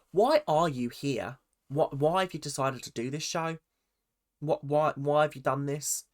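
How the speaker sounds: mock Australian interrogation; lightly imitated Australian interrogator. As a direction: fire questions in a put-on Australian accent. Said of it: "like, interrogating Ben".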